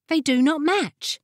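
high-pitched, haughty objection; disdainful sniff. A narrator's reading. Jessamine objects to the wizard's decoration of his chair, disdainful sniff. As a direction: sniff it out disapprovingly. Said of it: "sniffed Jessamine".

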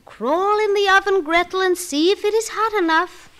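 high, loud commanding witch. Acted. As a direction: order her into the oven.

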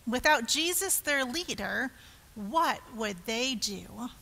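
measured, expressive read-aloud in rhyme; children's story narration. A narrator's reading. Telling children the Easter story, expressive narration.

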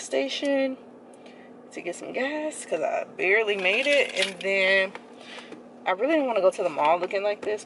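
muffled behind cloth mask; through a face mask. Real, not acted. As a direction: mouth covered by fabric. Seen 4: Black mask covers her nose and mouth throughout; absent in references.

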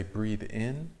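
calm breathing cue. Shown as a demonstration. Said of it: "So I'm gonna say".

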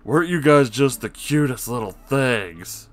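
slow, sugary mock praise to small kids; mock baby talk. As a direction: imitate a cooing adult fawning. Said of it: "As if they were talking to a couple of kids".

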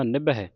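ਨਿਭੈ ending in open "-ai"; soft, careful "nib-hai" for ਨਿਭੈ; open final vowel. Shown as a demonstration. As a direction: finish ਨਿਭੈ on a wide vowel. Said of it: "ਇੱਥੇ ਦਲਾਵਾਂ ਲੱਗੀਆਂ, ਧਿਆਨ ਰੱਖਣਾ".

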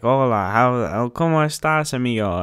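put-on Hispanic accent, lively greeting; thick Hispanic accent. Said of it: "really thick Hispanic accent".

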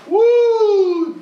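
very high, loud whoop; hype woo. Real, not acted. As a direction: yell it out, hyped. Hyped reaction to the line.

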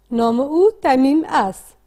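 slow read-aloud echo. Shown as a demonstration. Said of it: "با صدای بلند بخوانید".

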